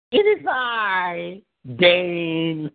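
slow, stately "It is I, Dane"; a mock-regal entrance, stretched slow; grand slow Dane impression. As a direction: announce yourself like royalty. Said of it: "repeats Dane bit".

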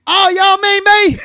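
high, drawn-out mock pop-singer voice; lightly hammed-up celebrity voice, feigned surprise. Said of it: "Hey, a singer here".

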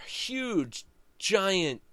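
ordinary delivery

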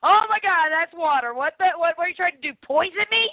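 high mock outrage; shocked disgust. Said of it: "I'm like".

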